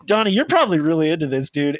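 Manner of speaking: a hint of a smug interviewer; teasing host voice. Voicing the news host.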